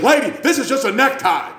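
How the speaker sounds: high laughing addict voice; crackhead voice. Retold or imitated. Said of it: "old crackhead voice".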